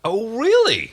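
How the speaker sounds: high, loud mocking question; manic "Oh, really?". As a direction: jeer at the news. Crichton mocking Crais.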